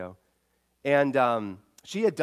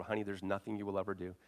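hushed reassurance; 3 semitones lower, 7 dB quieter, faster than usual. Retold or imitated. Father repeating reassurance softly.

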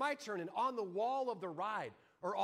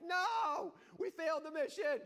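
indignant shout; 8 semitones higher than usual. Retold or imitated. Husband shouting back at the ride host. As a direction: blame her, shouting.

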